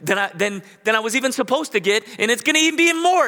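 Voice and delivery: put-on elderly woman telling her pastor, rising with joy; overjoyed woman. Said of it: "she just was crying".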